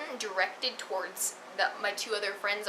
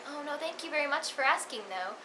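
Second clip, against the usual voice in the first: sweetly polite, higher-pitched reply; lightly acted good-manners voice; 6 semitones higher than usual. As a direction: politely decline in a higher, courteous voice. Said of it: "polite I said it".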